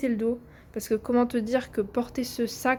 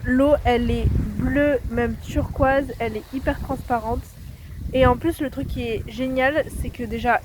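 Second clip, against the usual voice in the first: excited; 7 dB louder than usual. Real, not acted. Arriving at a beautiful lagoon.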